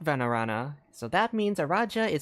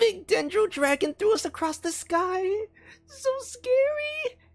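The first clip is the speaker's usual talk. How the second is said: tiny, silly creature voice, very high. Home alone, speaker gives one of these characters a silly little character voice. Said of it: "I can do silly little voices for these guys".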